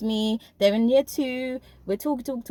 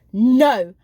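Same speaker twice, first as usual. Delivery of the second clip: retold raised voice; 2 semitones higher than usual. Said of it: "Raising her voice".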